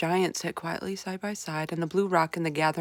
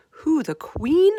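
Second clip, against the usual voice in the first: high, slow aghast cry; 11 semitones higher, 9 dB louder, much slower than usual. A narrator's reading. Sophie shocked the giant would eat the Queen, aghast. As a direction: gasp it out in shock. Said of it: "Sophie cried aghast".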